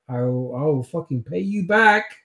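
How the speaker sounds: loud, forceful in-character threat; angry threat. Acted. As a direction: threaten payback, starting loud. Character threatens captor for leaving him.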